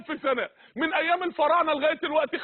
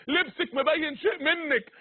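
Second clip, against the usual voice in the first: tearful plea; slower than usual. Real, not acted. Preacher pleading with unveiled women.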